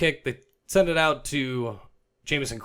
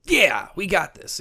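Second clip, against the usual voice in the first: slow, loud, higher cocky fan voice; confident fan; 8 semitones higher, 6 dB louder, slower than usual. Retold or imitated. Excited Miami fan in the stands, loud and cocky. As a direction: drag out a smug yeah. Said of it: "He's like".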